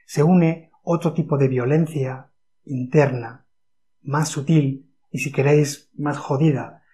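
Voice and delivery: deliberately slow, spaced words; speaking very slowly. Shown as a demonstration. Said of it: "estás hablando súper despacio".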